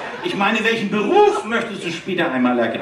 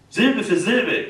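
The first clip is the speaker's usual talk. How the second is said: sounding out words; slower than usual. Shown as a demonstration. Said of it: "Dann wollen wir es mal üben".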